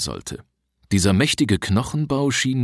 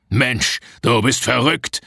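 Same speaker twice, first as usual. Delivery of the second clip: hissing anger; 4 semitones higher, slower than usual. A narrator's reading. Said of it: "fauchte er".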